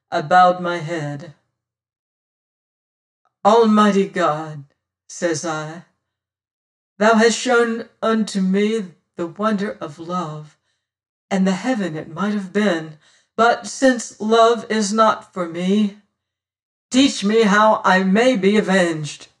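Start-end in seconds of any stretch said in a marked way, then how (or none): 3.5-4.7 raised, solemn appeal; praying. A narrator's reading. Martin kneels alone and calls on God, praying. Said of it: "as I prayed thus". 7.0-19.3 fervent, measured prayer; praying. A narrator's reading. Martin, left alone, begs God for vengeance, praying. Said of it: "as I prayed thus".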